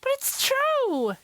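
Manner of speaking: very high, slow pleading cry; girl begging her parents to believe her; desperate insistence. A narrator's reading. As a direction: insist as no one believes you.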